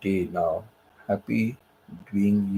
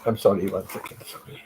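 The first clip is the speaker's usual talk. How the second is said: overcome with emotion. Real, not acted. Storyteller excusing himself to viewers mid-story, overcome with emotion. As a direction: apologise while trying to hold back real emotion. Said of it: "I get too emotional".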